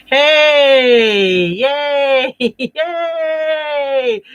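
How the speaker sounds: high, loud squeals of joy with a laugh; very excited. Pretend. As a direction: cheer like a thrilled little puppet. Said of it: "Bex is very excited".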